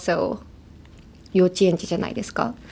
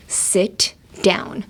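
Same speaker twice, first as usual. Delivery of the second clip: through gritted teeth. Retold or imitated. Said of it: "she'd speak through her teeth".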